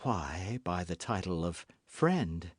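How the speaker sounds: low, soft evasive reply; embarrassed. A narrator's reading. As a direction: dodge the question quietly.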